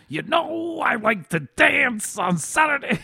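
high, slow mocking voice; mock sing-song. Friends mocking an old ad, high sing-song. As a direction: tease in a high lilting voice.

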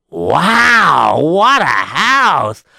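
long swooping exclamation; awestruck. Acted. Rabbi arrives at the rich man's house, awestruck. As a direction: stretch each word in wonder.

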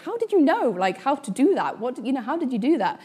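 high-pitched, incredulous retold questions; amazed questioning. Asking her sister how she stopped the bull, amazed. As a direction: re-enact baffled amazement, pitch jumping up.

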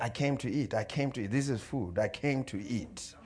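hushed muttered pep talk; under the breath. Acted. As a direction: softly repeat it to yourself like a mantra. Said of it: "talking to myself under my breath".

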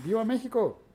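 grito de viva. Acted. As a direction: shout a short patriotic viva. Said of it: "No más, dicen". (grito patriótico, agudo y fuerte)

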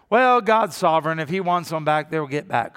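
dismissive. Retold or imitated. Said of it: "I have heard it said around here".

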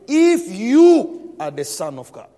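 a hint of the tempter's taunt, slow; mock devil quote. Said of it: "He said".

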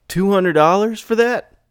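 high squeaky voice, pushy; squeaky haggling client. Acted. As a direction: sound like a cheap client haggling.

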